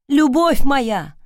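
loud, slow cry of relief; joyful exclamation. A narrator's reading. Sawyer greeting his beloved, a loud slow joyful cry. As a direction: call out to her, overjoyed. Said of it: "воскликнул Сойер".

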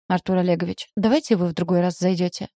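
ordinary delivery, nothing marked

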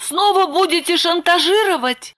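put-on high young woman's voice, lightly eager; Lipochka reassuring. A narrator's reading. Lipochka telling Roman the bandit left, high voice. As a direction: pitch up into Lipochka. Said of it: "догадалась Липочка".

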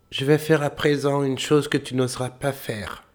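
high boasting voice; boastful little tailor. A narrator's reading. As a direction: brag it in a high voice. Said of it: "dit le tailleur".

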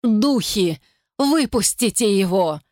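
strained, anguished begging; woman in agony begging spirits; desperate plea. Acted.

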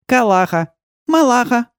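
put-on high, chirpy kids calling names; child voices. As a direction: squeak it out like small alien children. Children give their names. (высокие детские голоса называют имена)

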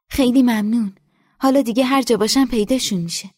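put-on polite reply from a shy girl; lightly voiced young girl; girl's voice. A narrator's reading. Golbanu answers Nesa.

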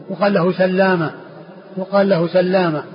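سلامة with a double l, "sallama"; doubled lam. Shown as a demonstration. Teacher repeating the exception, سلامة as "sallama". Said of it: "من قبيل التشديد".

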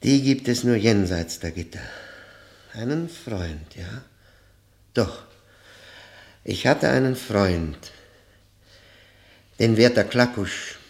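loud and insistent; emphatic outburst. Acted. Prisoner loudly telling the prosecutor about his friend. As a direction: proclaim it defiantly.

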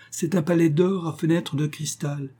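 lightly voiced proud underworld king; a hint of a boastful king; king Pluto voice. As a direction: coax her with grand promises.

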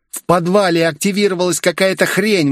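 high, urgent female voice; exclaimed. A narrator's reading. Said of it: "воскликнула Виктория".

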